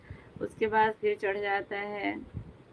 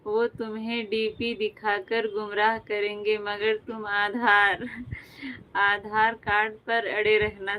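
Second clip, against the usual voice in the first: reciting a couplet. Acted. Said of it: "अर्ज किया है".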